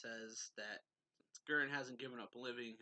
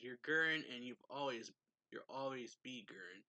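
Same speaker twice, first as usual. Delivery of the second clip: mildly raised, emphatic retold shout; retold yell; 5 dB louder than usual. Shinra yelling at Gurren to stay himself, retold yell. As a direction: push the opening out louder, then ease off. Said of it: "So he yells".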